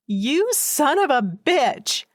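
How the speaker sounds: furious outburst. Acted. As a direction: blurt it out in fury. Shocked outburst at ex.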